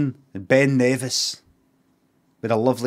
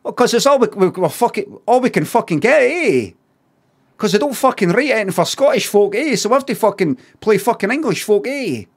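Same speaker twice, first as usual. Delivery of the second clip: loud, high sarcastic rant; hammed-up grievance, voice pushed up; mock outrage; 8 semitones higher, 4 dB louder than usual. Griping at chat about Scottish actors playing English, loud mock rant.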